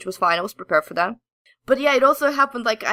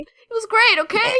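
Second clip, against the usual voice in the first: laughing; 12 semitones higher, 3 dB louder than usual. Real, not acted. Laughing apology for geeking out.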